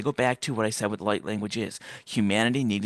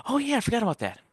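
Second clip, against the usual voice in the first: mock casual shrug; 12 semitones higher, faster than usual. His own ironic reply.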